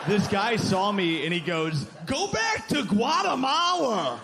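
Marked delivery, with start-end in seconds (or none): 2.1-4.2 high mock yell, slowed, at a stranger; hammed-up heckler yelling; heckler shout. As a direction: bark it like a street heckler. Heckler voiced in a bit.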